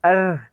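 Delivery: अर with the tongue vibrating on r; rolled German r in अर. Shown as a demonstration. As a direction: trill the r in अर. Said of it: "ज़ुबान को vibrate करना है आर पे".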